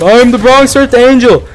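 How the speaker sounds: high, put-on voice of a self-important weirdo; creepy stranger voice. Vlogger mocking the Bronx Earth Angel, high put-on voice. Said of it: "He's like".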